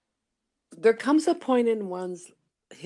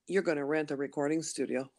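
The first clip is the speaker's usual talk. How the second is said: inner voice; 4 semitones lower, 4 dB quieter, faster than usual. Retold or imitated. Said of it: "say yes to my little voice".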